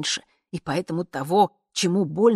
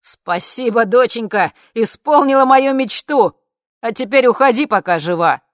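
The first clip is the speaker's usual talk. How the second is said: loud, higher triumphant shout; gleeful shout; 7 semitones higher, 12 dB louder than usual. Acted. Mother shouting after cursing her daughter, triumphant shout. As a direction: shout the thanks and the threat with glee. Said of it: "закричала".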